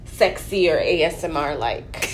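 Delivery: blocked nose talk; stuffy nose. Real, not acted. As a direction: speak through a stuffy nose. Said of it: "I just have a stuffy voice".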